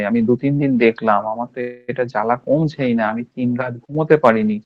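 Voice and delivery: mild mock alarm, dwelling on every symptom; a patient exaggerating her rash to the homeopath; dramatizing patient. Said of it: "ঠিক এইরকম ভাবে কথা বলে যাচ্ছে".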